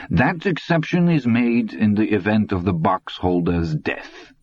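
put-on old German voice sinking to a breath at the end; hint of an old German, menace trailing off; sly old man. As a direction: let the threat fade out.

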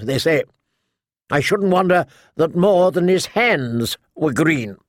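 lightly voiced outspoken noblewoman; a hint of a tart matriarch, gossiping; sharp-tongued old lady. Lady Alina on the noble houses, lightly voiced sharp old lady.

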